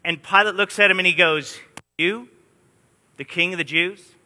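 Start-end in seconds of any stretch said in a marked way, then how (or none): 2.0-4.1 sarcastic. Retold or imitated. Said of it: "The context of the Greek language is sarcasm".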